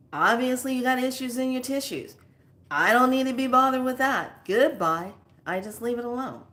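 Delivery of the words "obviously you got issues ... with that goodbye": raised, higher dismissive retort; retold telling-off. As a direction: tell off a rude neighbor and be done. Retold telling-off of rude neighbor.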